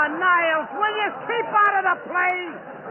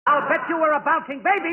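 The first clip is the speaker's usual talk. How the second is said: louder retry. Shown as a demonstration. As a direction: repeat the joke louder so they hear. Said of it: "Nobody hears me".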